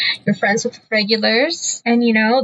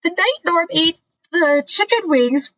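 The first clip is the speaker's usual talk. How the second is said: guys asking; 6 semitones higher than usual. Retold or imitated. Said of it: "they're like".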